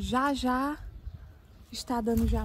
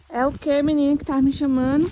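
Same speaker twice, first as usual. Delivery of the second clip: calling out; 3 semitones higher, 6 dB louder than usual. Real, not acted. Answering a call from afar.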